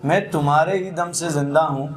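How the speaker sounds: Jaun Elia recitation style. Retold or imitated. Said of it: "इस गज़ल को पढ़ते हैं कुछ इस तरीके से".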